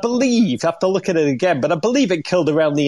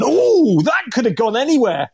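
retold shout at TV; 6 semitones higher than usual. Dad shouting at the television over a wide shot, mock dismay. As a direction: yell at the TV as a shot flies wide. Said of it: "I shouted at the television".

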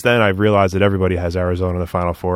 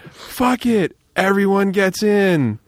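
infomercial pitch; 9 semitones higher, much slower than usual. Pretend. Infomercial skit punchline.

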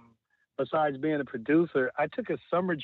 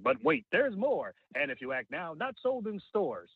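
infomercial; 3 semitones higher than usual. Shown as a demonstration. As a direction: sell it like a late-night TV ad. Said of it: "my voice is more so infomercial".

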